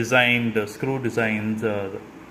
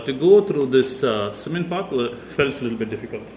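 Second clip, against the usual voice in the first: winded, breathing hard between words. Real, not acted. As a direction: talk while catching your breath. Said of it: "I'm slightly out of breath".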